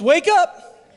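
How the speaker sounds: loud, high rallying cry; rousing call. Shown as a demonstration. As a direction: urge the crowd awake. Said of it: "Come on, folks".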